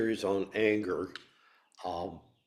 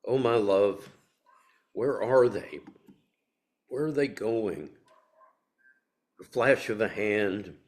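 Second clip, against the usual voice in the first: poem reading. Acted. Speaker asks where the lost ones are, emphatic poem reading. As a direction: call out the questions, then settle gently. First reading of poem's ending.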